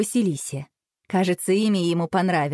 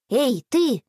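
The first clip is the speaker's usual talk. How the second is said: put-on unsure boy; 6 semitones higher than usual. A narrator's reading. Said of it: "неуверенно произнёс Боря".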